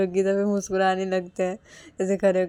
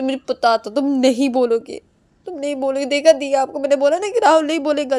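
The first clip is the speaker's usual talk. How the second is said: loud, raised-pitch outburst; indignant accusation; 5 semitones higher, 9 dB louder than usual. Acted. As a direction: argue back insistently at full voice. Acted quarrel, accusing him. (नाराज़ होकर ऊँची, तेज़ आवाज़ में शिकायत)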